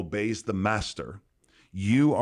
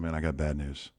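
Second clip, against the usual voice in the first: mock sad farmer; 5 semitones lower, 6 dB quieter than usual. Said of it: "He's very sad".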